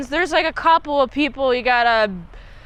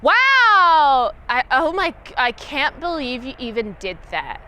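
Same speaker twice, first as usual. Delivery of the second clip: mock bad acting. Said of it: "her acting skills is nothing".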